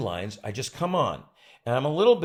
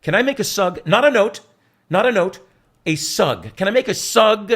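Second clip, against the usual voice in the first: loud, higher coy ask; lightly voiced fussy star; 8 semitones higher, 11 dB louder than usual. Star coyly offering a suggestion, lightly voiced. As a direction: savour the word sug. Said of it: "he said".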